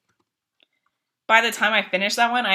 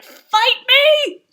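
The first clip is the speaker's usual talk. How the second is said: channeling Chili; 4 dB louder than usual. Retold or imitated. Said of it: "I was channeling Chili".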